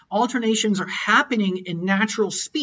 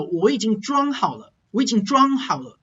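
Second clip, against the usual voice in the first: tone carried on 装, 好了 trailing unstressed; unstressed ending. Shown as a demonstration. Teacher drilling tones, unstressed ending after 装. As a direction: land on 装 and keep the ending light in 装好了. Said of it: "you're gonna be adding an unstressed ending".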